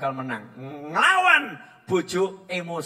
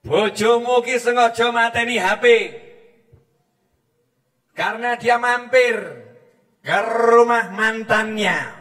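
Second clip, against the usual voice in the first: angry wife; 3 semitones higher, 4 dB louder than usual. Retold or imitated. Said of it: "Marah ini istri".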